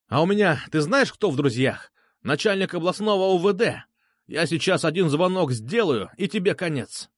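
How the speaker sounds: indignant, boastful threat; blustering Petrushka. Acted. Petrushka boasts of police friends, blustering threat.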